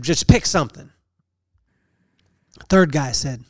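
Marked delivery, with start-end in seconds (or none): 0.0-0.9 genie voice. Retold or imitated. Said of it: "And the genie said".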